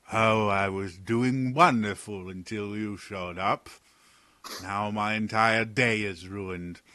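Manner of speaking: slow, clipped-back scolding from afar; lightly voiced annoyed official; irritated guard. Guard scolds Talon for skipping protocol, irritated.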